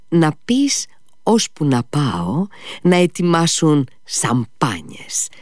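slow hushed instructions; secretive whisper. A narrator's reading. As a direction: lean in and whisper the order. Μυστικές οδηγίες στον Μίσα. (ψιθυριστές οδηγίες στο παιδί)

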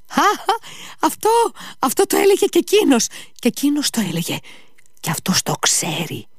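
high outburst, then insistent argument; agitated Ivan. A narrator's reading.

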